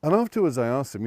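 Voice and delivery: ordinary talk, nothing marked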